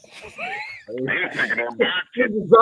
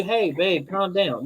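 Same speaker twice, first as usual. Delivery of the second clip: soft calming quote; 5 semitones lower, 8 dB quieter, slower than usual. Retold or imitated. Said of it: "if I told you".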